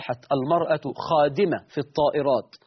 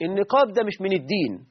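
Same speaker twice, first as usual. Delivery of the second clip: lightly voiced woman objecting, higher towards the end; retold complaining woman; 3 semitones higher than usual. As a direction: mimic her complaint with a touch of indignation. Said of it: "وتقول لك".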